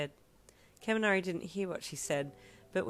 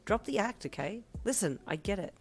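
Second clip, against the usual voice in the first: irked; 5 semitones higher than usual. A narrator's reading. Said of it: "starting to get a little irked".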